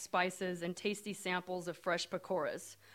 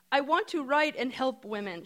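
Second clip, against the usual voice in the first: put-on earnest Indian accent, higher and louder; sincere hope in an Indian accent; 5 semitones higher, 5 dB louder than usual. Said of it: "she says in her strong Indian accent".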